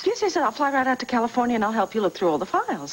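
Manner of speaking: high-pitched, eager rush of willingness; eager insistence. Acted. Caller offering to fly out to California, eagerly. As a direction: press the offer with excitement.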